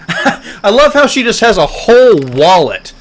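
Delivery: laughing. Real, not acted. Player marvels at the wallet of fake IDs, laughing. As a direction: chuckle your way through it, amused.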